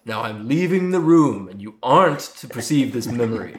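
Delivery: slow, drawn-out professor's impression; Alan Rickman as Snape. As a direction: stretch each phrase like a menacing schoolmaster. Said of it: "really good Alan Rickman impression".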